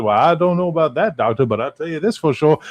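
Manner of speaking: two Starfleet officers as courtly Southerners; Southern gentleman. Retold or imitated. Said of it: "being such gentlemen to each other".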